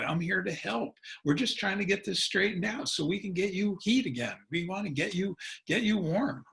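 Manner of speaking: reassuring. Shown as a demonstration. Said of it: "Get on their side".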